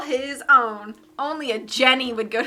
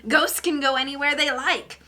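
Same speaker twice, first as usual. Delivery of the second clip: witchy voice. Acted. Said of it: "I'm glad you like my witchy voice".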